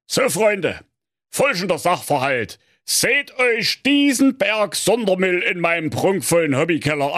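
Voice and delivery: high, lovingly voiced old tinkerer; loving father. A narrator's reading. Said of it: "sprach der Manfred von Antenne liebevoll".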